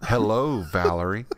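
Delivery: lightly voiced talking panel, low with a rising end; a hint of an automated voice; imitated panel voice. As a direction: repeat it like a recorded announcement, dropping low on the name. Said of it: "It says".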